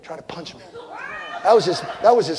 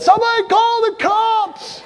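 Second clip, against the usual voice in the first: frantic call for help; slower than usual. Retold or imitated. Pinned under pileup, retold call.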